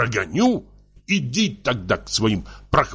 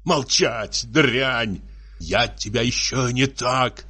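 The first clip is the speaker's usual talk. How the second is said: heated, higher-pitched tirade; angry threats; 4 semitones higher than usual. Acted. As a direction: threaten her as a jealous husband. Husband threatens wife in acted quarrel.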